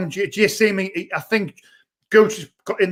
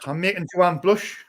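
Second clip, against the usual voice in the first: laughing; 5 dB quieter than usual. Real, not acted. Laughing at the picture.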